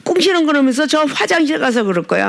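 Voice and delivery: ordinary talk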